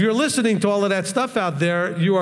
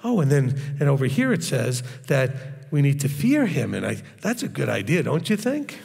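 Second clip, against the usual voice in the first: a light, lower, hushed imitation of a gentle preacher; mocking soft preacher; 3 semitones lower than usual. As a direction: mimic a smooth preacher lulling his flock, only lightly. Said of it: "He talks like this".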